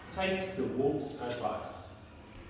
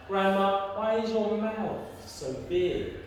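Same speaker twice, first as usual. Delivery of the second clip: a hint of wondering child, pitched up; Red Riding Hood; 3 semitones higher than usual. Red Riding Hood asks Grandma once more, lightly raised voice. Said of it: "Red Riding Hood says to Grandma".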